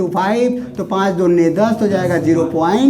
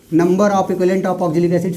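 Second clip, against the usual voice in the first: slow dictation; slower than usual. Shown as a demonstration. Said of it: "सारे question एक साथ लिख लो".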